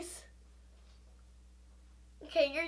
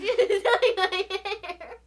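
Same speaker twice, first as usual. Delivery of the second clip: laughing; 4 semitones higher, 5 dB louder, much slower than usual. Real, not acted. Friend smears makeup, laughing.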